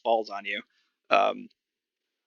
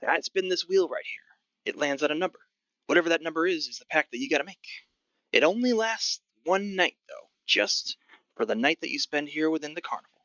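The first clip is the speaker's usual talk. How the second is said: higher-pitched gruff goblin voice; gruff old goblin; 5 semitones higher than usual. Acted. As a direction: play a crusty old goblin selling tickets. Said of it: "Sort of this gruff old goblin".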